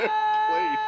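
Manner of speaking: high goofy cartoon laugh; cartoonish hyuck laugh. Goofy laugh mid-story.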